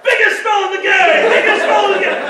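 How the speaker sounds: high, loud battle holler; retold boss shouting at full volume; shouted spell call. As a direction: yell the spell over the fight. Creature shouting spell over battle.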